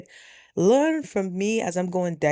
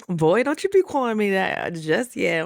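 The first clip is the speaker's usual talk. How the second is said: playful, slightly raised retort; mock scolding; 3 dB louder than usual. Woman teasing her date over a nickname, mock scolding. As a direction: tell him off in jest.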